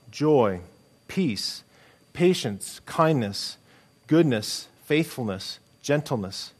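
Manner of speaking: measured public reading of a Bible passage; scripture reading. Acted. Pastor reading Galatians to the congregation, measured scripture reading. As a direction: read it out like a lesson from the pulpit.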